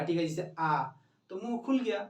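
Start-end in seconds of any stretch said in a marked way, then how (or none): 0.6-0.8 open-mouthed आ, mouth fully open; long open आ; vowel aa. Shown as a demonstration. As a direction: say आ with the jaw dropped wide. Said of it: "उच्चारण कीजिएगा आ का".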